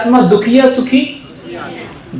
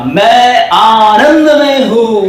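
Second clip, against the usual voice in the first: slow, smiling and bright-hearted; unhurried happy chant; smiling affirmation; slower than usual. Shown as a demonstration. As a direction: say it through a smile. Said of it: "मुस्कुराओ और फिर बोलना".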